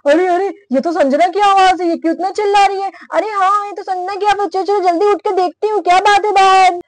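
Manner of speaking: lightly acted alarm on hearing cries; startled sister. Sister wakes to hear the screaming, startled. Voices sister waking to shouts.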